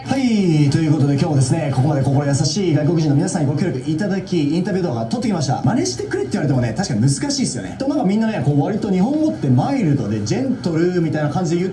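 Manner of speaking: loud, fast presenter patter; video presenter. Real, not acted. Host wrapping up street interviews for viewers, fast presenter style. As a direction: rattle off the wrap-up with punch.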